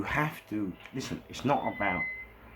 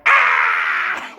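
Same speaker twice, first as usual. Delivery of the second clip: long, loud imitated yell; mock scream; 4 semitones lower, 13 dB louder than usual. Imitates guest biting, then screaming.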